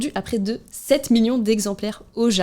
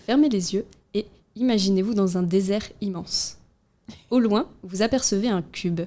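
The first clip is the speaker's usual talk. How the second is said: suave voice. Pretend. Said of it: "Je vais essayer de prendre une voix suave".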